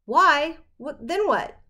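sudden high alarmed outburst. Acted. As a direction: blurt it out, alarmed. Boy alarmed at deadline.

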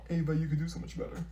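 very soft, quick undertone; muttered aside. Acted. Friend doubting the new boyfriend, muttered aside. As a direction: slip it out under the breath.

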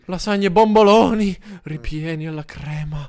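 drool over every word; dreamy craving. Pretend. Player hallucinating food, slowly savouring each dish name.

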